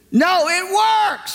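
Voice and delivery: high, slow, insistent cry; woman insisting, slow and high; drawn-out excited shout. Retold or imitated. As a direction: stretch it out high with joy. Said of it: "She said again".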